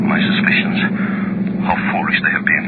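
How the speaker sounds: whispered inner thought. Acted. Inner thought, relief at suspicions.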